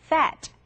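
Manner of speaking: "fat" with upper teeth on the lip, blowing the F; airy F sound. Shown as a demonstration. Teacher modelling the word for learners, airy F pronunciation. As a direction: blow air through the F of "fat". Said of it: "바람 소리예요".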